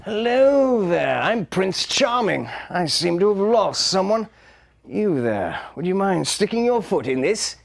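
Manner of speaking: lightly voiced charming prince; lightly played prince. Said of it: "Send in the princes".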